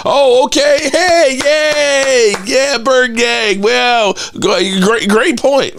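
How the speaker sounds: very high, fake cheering; mock enthusiasm. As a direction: gush in a sarcastic squeal, as if delighted by the troll. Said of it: "what am I supposed to say?".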